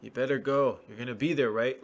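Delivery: loud pushy boss voice; bossy order. Retold or imitated. Boss ordering a worker to show up, loud and pushy. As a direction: bark it like a boss. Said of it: "their boss says".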